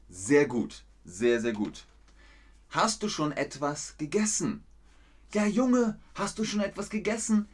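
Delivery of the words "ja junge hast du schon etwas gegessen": higher, quicker, fussing grandma. Acted. Grandma asks her grandson whether he has eaten, higher fussing voice. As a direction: play a caring grandma checking on the boy. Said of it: "Nein, Oma".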